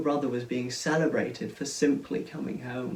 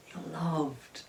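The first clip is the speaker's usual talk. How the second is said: whispered; 8 dB quieter than usual. Acted. Father reassuring son.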